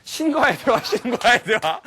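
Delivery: high, loud, laughing echo; hammed-up amazement, stretched out; mock awe. Speaker repeats the teacher's answer, mock-awed and amused. Comically echoes a listener's lofty answer.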